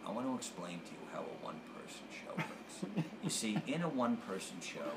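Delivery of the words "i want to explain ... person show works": hushing a heckler, mock patient; mock explaining. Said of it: "I say".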